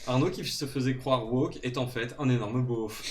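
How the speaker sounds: mock outrage. Mock outraged tabloid denunciation.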